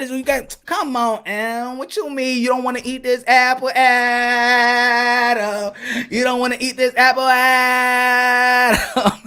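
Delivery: lilting tease; singsong coaxing. Acted. Eve coaxing Adam to eat the apple, singsong. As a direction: sing his name out teasingly.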